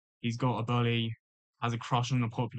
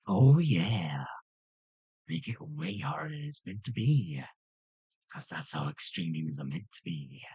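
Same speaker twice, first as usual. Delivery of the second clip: put-on demon voice; demonic voice; 4 semitones lower than usual. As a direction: speak like a demon. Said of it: "stop doing that weird demonic voice I can do".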